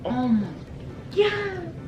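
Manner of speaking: God jumps way up high; shocked squeal. Real, not acted. Reacting to the singer's animal sounds, a high shocked squeal.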